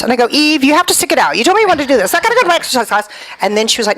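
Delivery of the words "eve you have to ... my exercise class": retold scolding.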